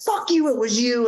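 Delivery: mild mock yell, pitched high. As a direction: toss back her accusation in a mild mock yell. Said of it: "this woman just starts yelling".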